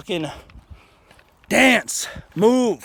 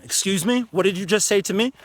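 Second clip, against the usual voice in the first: firm but calm; 2 semitones higher than usual. Shown as a demonstration. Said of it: "you can still keep a tone".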